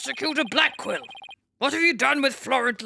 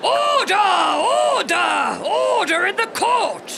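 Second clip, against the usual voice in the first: powerful, booming, high shout with stretched words; 8 semitones higher, 5 dB louder than usual. Voicing the judge calling the court to order: powerful shouted order. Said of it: "That was a powerful order".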